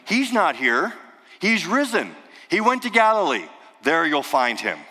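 high, ringing announcement; angel's proclamation. Retold or imitated. The angel announcing to the women, high and bright.

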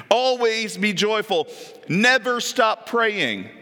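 slow, drawn-out reading; slow, emphatic scripture read; slow command. Shown as a demonstration. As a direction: give each word weight. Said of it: "Is that a command?".

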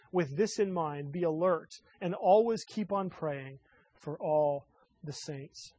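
solemn, measured Bible reading; scripture reading. Acted. Reads scripture aloud.

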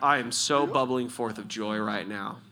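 mock-joyful words in a level, unmoved voice; deadpan joy. Preacher mimicking a joyless believer standing there, deadpan. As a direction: claim overflowing joy with no lift at all. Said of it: "how can you stand there and be like".

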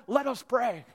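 mock-formal churchly invitation to prayer; pastor's prayer call. Pastor filling an awkward pause, mock-formal call to prayer. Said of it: "I say what all pastors say in that moment".

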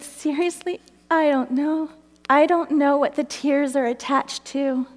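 slightly high, tearful bewilderment; mildly acted weepy confession; retold weeping. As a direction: imitate baffled honesty through tears. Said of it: "now I'm weeping, seriously".

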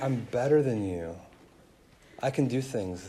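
smug. Retold or imitated. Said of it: "that smugness of".

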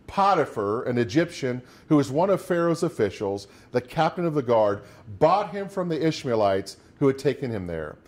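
steady, measured Bible reading from the pulpit; scripture reading. Acted. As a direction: read the verses out to the congregation. Reads Genesis aloud.

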